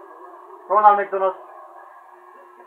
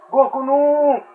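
high, loud cries climbing higher; panicked wail; 9 semitones higher, 5 dB louder, much slower than usual. Real, not acted. Gamer pleading with Goku in a fight, panicked wail. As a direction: wail the refusal, pitch shooting up.

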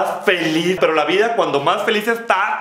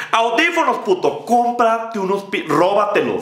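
mock scold; 5 semitones higher than usual. Scolding the cholo.

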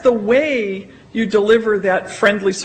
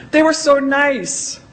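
higher and slowed, savouring "nice"; amazed delight; 5 semitones higher, slower than usual. Retold or imitated. Quoting a surprised learner, amazed and slowed. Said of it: "That surprised me".

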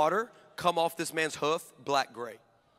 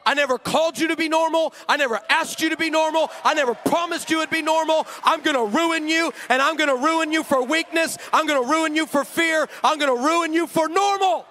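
God's firm reply; 6 semitones higher than usual. Retold or imitated. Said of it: "what he yelled back".

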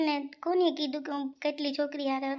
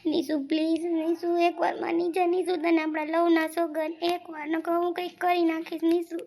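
urgent, insistent begging; pleading. Acted. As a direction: beg her to give in. Man begs her not to leave.

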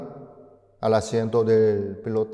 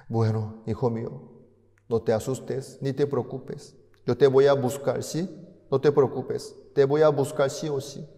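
reassuring father; 3 semitones higher than usual. Acted. Father calms son.

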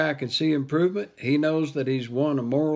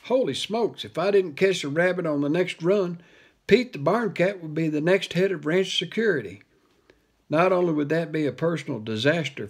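panicked; 3 semitones higher than usual. Acted. Panicking about losing his job.

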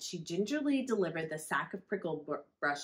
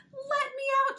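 high squeaky shout from inside the jaws; 5 dB louder than usual. Acted. The trapped mouse shouting at Wolf Cub, very high. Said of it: "she shouted".

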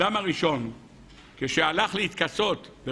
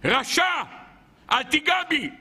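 crying out; 7 semitones higher than usual. Acted. Tree screams at the wicked snake, acted outcry. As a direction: cry it out in separate bursts, rising in pitch. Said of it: "היה צווח עליו ואומר".

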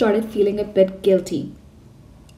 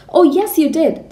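loud, higher roar; roaring back; 6 semitones higher, 6 dB louder than usual. A narrator's reading. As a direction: roar it straight back at her. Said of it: "the Trunchbull roared back".

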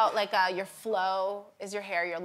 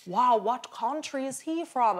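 slow, higher-pitched mock bewilderment; baffled husband; 4 semitones higher than usual. Husband on tour puzzled by accents, imitated bafflement. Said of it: "I'd take him on tour with me and be like".

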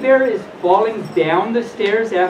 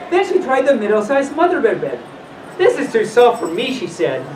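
put-on animated read-aloud to children; lilting storyteller with swooping pitch; storybook reading; 2 semitones higher than usual. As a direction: read it like a bedtime fairy tale.

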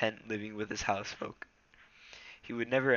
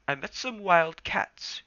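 Rusty voice; 9 semitones higher, 6 dB louder, slower than usual. Acted.

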